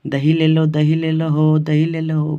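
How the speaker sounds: lightly imitated curd seller calling out; street vendor's call. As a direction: call out as if hawking curd, drawn on one tone. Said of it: "घूर के बेचती थी". (दही बेचने वाली की हल्की नकली पुकार)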